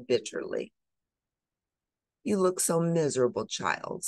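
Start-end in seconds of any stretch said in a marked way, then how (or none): 2.2-4.1 kind voice. Acted. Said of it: "said a kind voice".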